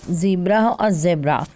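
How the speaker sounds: "zebra or zebra" with a clear z, "zee-bra" then "zeh-bra"; "zebra" given both ways, with a crisp z; "zebra" said carefully, z sound first; correct pronunciation. Shown as a demonstration. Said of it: "So correct pronunciation is".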